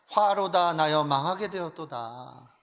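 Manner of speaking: slow, drawn-out scriptural cry; prophetic lament. Acted. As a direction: declaim it slowly like a prophet's woe. Acting out Isaiah's lament. (선지자의 탄식처럼 길게 끌며)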